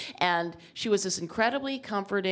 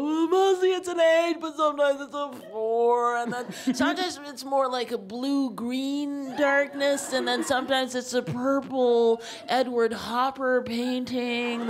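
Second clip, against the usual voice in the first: emotional rush; 5 semitones higher than usual. Retold or imitated. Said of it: "I go".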